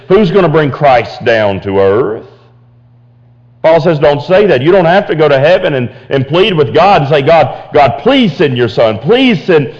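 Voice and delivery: pleading, rising sermon voice; full-force preaching. Acted. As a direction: drive the point home to the congregation.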